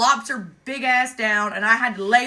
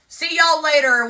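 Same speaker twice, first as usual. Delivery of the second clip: cheery send-off; 7 semitones higher, 10 dB louder than usual. Retold or imitated. Leaving the cops with the emu.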